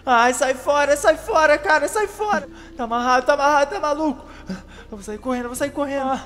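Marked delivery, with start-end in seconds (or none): 0.0-4.2 scared yelling. Acted. Shouting clown away.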